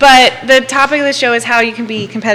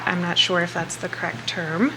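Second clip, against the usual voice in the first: ordinary talk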